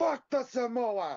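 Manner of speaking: loud, very high, belted fake Jamaican accent. In a group conversation, the speaker suddenly says this, sounding like Miss Cleo. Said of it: "Why do you sound like Miss Cleo all of a sudden?".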